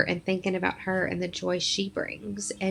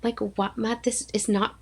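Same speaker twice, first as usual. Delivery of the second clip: playfully put-out self-quote; mock exasperation; 3 semitones higher than usual. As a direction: pitch jumps up on the complaint. Retold exasperated complaint about dress.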